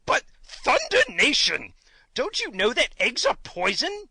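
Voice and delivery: high, loud horrified outburst; roaring king. A narrator's reading. King terrified of poisonous eggs, roaring. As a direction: roar it, stretching the exclamation. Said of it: "roared the king".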